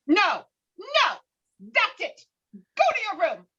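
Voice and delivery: high, put-on voice ordering a child off; scolding mother. Mother scolding daughter, sharp high voice. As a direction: send the kid to her room, fed up.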